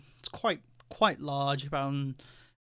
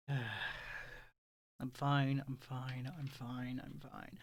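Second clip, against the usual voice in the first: fading to a whisper; 8 dB quieter, much slower than usual. Acted. Vix repeating, fading to whisper.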